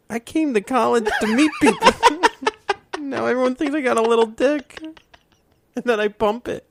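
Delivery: hammed-up crying over his ruined freshman year; a half-laughing fake sob of despair; mock wail.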